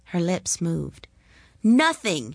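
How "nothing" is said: higher, louder mocking jeer; boy's loud taunting cry. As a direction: spit the word at her. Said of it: "he cried".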